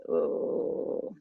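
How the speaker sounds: breathy unvoiced "Ooh" with no voice at all; airy voiceless ooh. Shown as a demonstration. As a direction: push air through without voicing. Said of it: "what I hear is".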